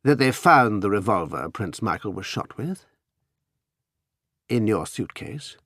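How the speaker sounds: slow, deliberate reveal; slowly. Acted. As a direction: lay it out slowly, letting it sink in. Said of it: "said Anthony slowly".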